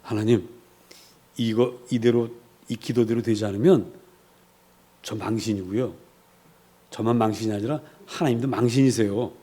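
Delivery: low, softened confiding prayer; quiet, low aside to God; hushed private prayer. Retold or imitated. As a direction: pray so the congregation can't hear. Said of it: "여러분들 못 듣게 이렇게 기도합니다".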